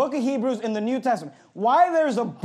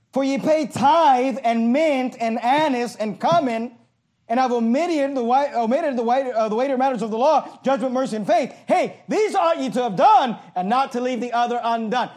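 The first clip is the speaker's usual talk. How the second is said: fiery scripture reading. Acted. Preaches the verse aloud.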